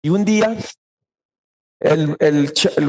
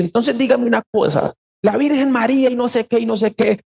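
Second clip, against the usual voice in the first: higher-pitched retelling of an angry man; mock angry challenge; 6 semitones higher than usual. Brother confronting the pastor about the Virgin Mary, mock angry. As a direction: pitch it up like a scoffing skeptic. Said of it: "así como enojado".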